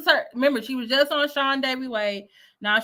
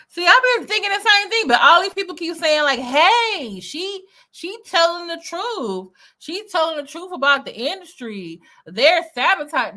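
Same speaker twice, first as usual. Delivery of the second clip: mocking; 7 semitones higher, 6 dB louder than usual. Host mocks what people say.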